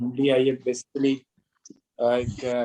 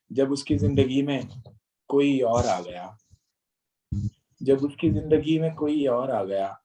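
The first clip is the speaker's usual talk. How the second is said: measured, rhythmic ghazal recital; poetry recitation. Acted. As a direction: recite each line with weight. Reciting requested couplet.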